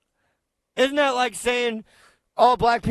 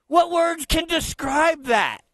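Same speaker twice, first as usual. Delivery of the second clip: mock outraged shout, pitched up; 6 semitones higher than usual. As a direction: yell it in mockery. Mocking the clip's speaker.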